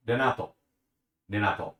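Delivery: "Renato" with a tapped Japanese R, close to a D; Japanese pronunciation. Shown as a demonstration. Showing viewers the Japanese version of the name, tapped R. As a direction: say "Renato" opening on a quick tongue tap. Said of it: "That's the Japanese version".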